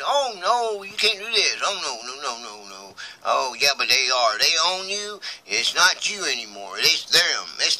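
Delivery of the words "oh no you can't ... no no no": high pleading that sinks and fades; acted helpless protest. Patient protesting while being dissected, acted dismay.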